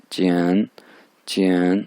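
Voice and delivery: चियन drawn out and dipping; third tone demo. Shown as a demonstration. Teacher demonstrating the third tone, drawn out. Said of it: "अगर third tone होती है".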